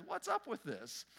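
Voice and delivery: outraged minister. Acted. A minister protests his reward to Saint Peter, outraged and high. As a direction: protest loudly like a wronged preacher. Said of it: "the minister is outraged".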